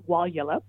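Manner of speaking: "Walyulup" with its first syllable hit hardest; first-syllable stress. Shown as a demonstration. Linguist showing listeners the Noongar name for Fremantle, "Walyulup" stressed on "Wal". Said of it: "the first syllable is the one that gets the stress".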